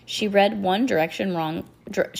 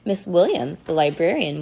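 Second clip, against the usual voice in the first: ordinary delivery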